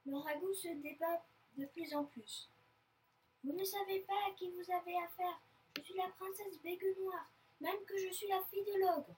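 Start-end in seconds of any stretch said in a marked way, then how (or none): 3.4-9.1 high, indignant declaration; outraged princess, pitched up; haughty threat. Acted. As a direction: warn them who they are dealing with. Captive girl threatens her captors.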